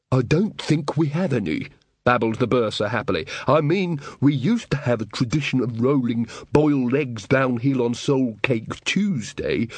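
put-on happy, rambling old wizard; giddy bursar. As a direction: babble it cheerfully. Bursar babbling happily.

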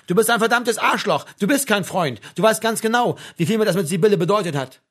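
loud, high, hurt accusation; worked-up, wounded outburst; on the verge of tears. A narrator's reading. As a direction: hurl it out as if about to cry. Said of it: "als würde er gleich anfangen zu heulen".

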